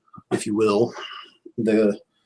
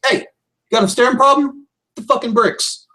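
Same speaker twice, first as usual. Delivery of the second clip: menacing bodyguard; 14 semitones higher than usual. Acted. Bodyguard warning off a gawking market worker, tough and menacing. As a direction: square up to a staring stranger. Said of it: "looks at somebody and says".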